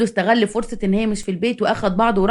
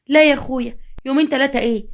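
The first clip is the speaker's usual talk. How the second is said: higher-pitched, mild protest; 4 semitones higher than usual. Acted. Wife turning down husband's offer, higher protest. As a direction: wave the offer away with an echo question.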